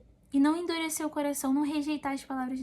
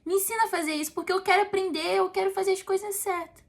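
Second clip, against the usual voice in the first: put-on higher, pleading like a small child asking its father; humble child's prayer; 5 semitones higher than usual. Believer praying to God as a needy child, higher and pleading. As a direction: beg God to teach you, like a child.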